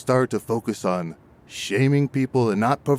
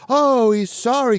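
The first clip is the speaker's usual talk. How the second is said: mocking; 13 semitones higher, 4 dB louder than usual. Mocking, slower and higher.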